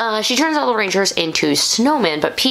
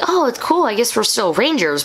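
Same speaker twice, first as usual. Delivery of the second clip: higher-pitched casual mock quote; imitating the Rangers; 6 semitones higher than usual. Reviewer voicing the Rangers shrugging it off, light imitation. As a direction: toss it off as the breezy Rangers. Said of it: "So they're like".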